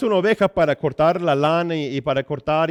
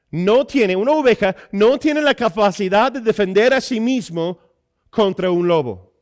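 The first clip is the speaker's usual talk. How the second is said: higher, forceful sermon delivery; emphatic preaching; 6 semitones higher, 5 dB louder than usual. Acted. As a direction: hammer the teaching point home.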